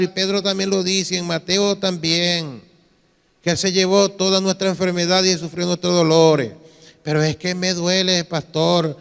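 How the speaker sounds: lightly voiced church member reciting then complaining; imitated believer's confession. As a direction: recite evenly as the doubting believer. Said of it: "mire esta confesión".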